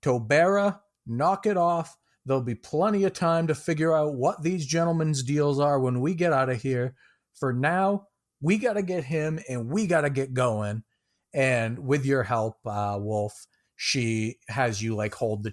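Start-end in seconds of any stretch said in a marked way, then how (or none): 0.0-10.8 higher, tired scolding voice; exasperated woman. Acted. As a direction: scold the dwarf, fed up. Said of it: "shakes her head in sighs and goes".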